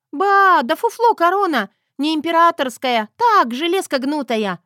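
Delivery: put-on girl taunts the heroine loudly; loud taunting shout. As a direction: shout it gleefully to grandma. Girl yells crown is fake.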